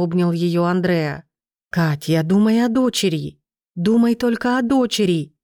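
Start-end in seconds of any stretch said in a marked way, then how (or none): 1.7-5.3 urgent pleading. Acted. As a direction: urge her, building pitch. Андреа уговаривает плачущую Катю. (настойчиво, всё выше и громче)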